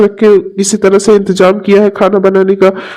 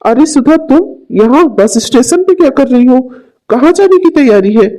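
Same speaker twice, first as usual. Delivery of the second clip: worried concern; 4 semitones higher than usual. Acted. Friend finds Sudha crying.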